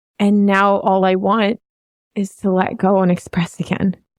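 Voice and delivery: heartfelt delivery, feeling rising in the voice. A teacher talking with another teacher, getting emotional. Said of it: "sorry, I'm getting like emotional".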